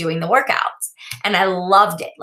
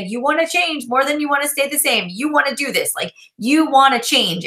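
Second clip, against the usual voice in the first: higher, urging herself on; self pep talk; 5 semitones higher than usual. Retold or imitated. Motivating herself before the Insanity workout, higher pep talk. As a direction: coach yourself through the workout, pitched up. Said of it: "I would say".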